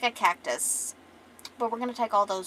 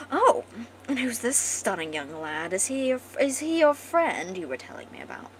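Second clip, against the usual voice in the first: posh queen; 3 semitones higher than usual. Acted. Posh queen asks about the young lad, with posh curiosity. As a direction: take a posh, curious regal tone. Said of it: "This queen's a fucking posh".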